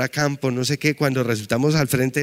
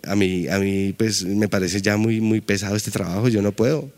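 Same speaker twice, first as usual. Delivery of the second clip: talking to himself; 4 semitones lower than usual. Retold or imitated. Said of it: "a hablar conmigo mismo ese día entre el taxi y decía".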